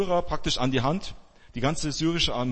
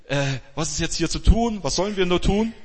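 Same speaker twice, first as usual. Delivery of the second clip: jittery; 5 semitones higher, 4 dB louder than usual. Retold or imitated. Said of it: "so ein bisschen hippelig wird".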